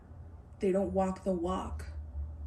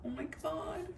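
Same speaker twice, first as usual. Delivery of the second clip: soft, high, breathless oh my God; overwhelmed gasp; 7 semitones higher, 9 dB quieter than usual. Real, not acted. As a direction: caught off guard and moved, barely voiced. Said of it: "You guys, I wanna cry".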